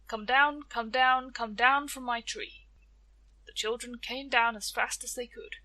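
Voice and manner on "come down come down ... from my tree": loud chanted spell; magic words. Acted. Tia commanding the children down from her tree, loud spell chant. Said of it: "So she said her magic words".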